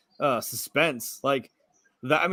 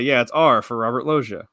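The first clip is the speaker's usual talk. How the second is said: Family Guy bit; 6 dB louder than usual. Retold or imitated. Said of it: "I wanna do the Family Guy thing".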